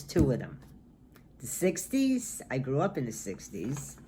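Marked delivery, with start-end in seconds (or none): 1.4-2.4 excited. Real, not acted. Fond answer: favorite decade.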